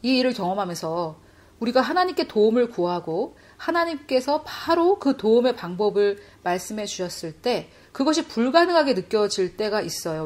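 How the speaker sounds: ordinary delivery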